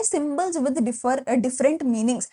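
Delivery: very slow, word by word for notes; slow dictation. Shown as a demonstration. Teacher dictating a definition to students, very slowly. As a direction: spell it out so they can write. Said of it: "dictating notes to students".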